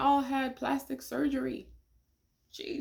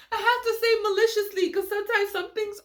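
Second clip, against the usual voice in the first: amused emphasis; 10 semitones higher, 4 dB louder than usual. Real, not acted. Explaining word choice, still laughing.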